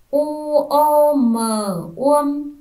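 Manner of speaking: U o m spelled slowly and loudly, then uông joined; slow loud spelling. Shown as a demonstration. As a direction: drag each letter for the class. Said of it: "Chúng mình đánh vần". (đánh vần chậm và to)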